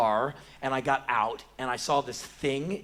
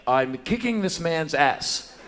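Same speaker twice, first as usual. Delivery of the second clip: slow, deliberate report, louder; clipped Boy Scout earnestness; 3 semitones higher, 5 dB louder, slower than usual. Acted. Brawler answers the policeman's question, earnest Boy Scout. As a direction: answer dutifully without a trace of irony. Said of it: "I will answer in clipped Boy Scout fashion with not a trace of irony".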